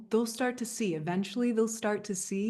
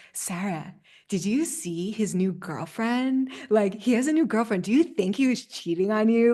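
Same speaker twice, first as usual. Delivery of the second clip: put-on a young friend eagerly stirring up gossip, getting louder; gossipy teen friend; 6 dB louder than usual. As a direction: play the nosy friend who can't wait to ask. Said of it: "people talk like that at that age".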